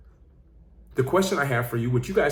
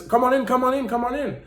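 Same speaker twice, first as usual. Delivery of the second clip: gentle father; 9 semitones higher, 3 dB louder than usual. Retold or imitated. Father calls daughter inside.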